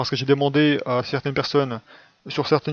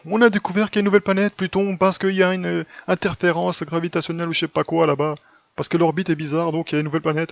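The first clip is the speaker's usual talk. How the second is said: mocking scientist voice; 3 semitones higher than usual. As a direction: parody the astronomers with breathless fake excitement. Mocking scientists who invent planets.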